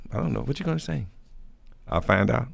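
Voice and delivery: normal talking voice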